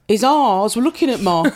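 lightly imitated Leicester accent; a hint of Leicester accent. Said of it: "she put on a Leicester accent".

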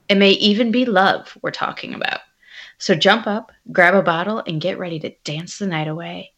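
lilting sales read of a wine label. Pretend. Selling the Pinot label to her co-host, wine voice. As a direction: sell the wine with playful emphasis. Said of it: "put on your wine voice".

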